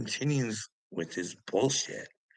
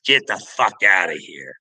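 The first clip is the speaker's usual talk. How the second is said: imitating a rude dismissal, louder at the end; mock hostile brush-off; 5 dB louder than usual. Vlogger mocking Upchurch's family telling him off, mock hostile. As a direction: snarl it like a hostile rival.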